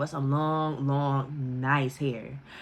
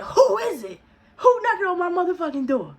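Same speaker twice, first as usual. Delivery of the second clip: high, loud, laughing mom shouting through the door; loud mother; 10 semitones higher than usual. Retold or imitated. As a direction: belt it out like a loud, funny mom. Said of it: "she is so loud".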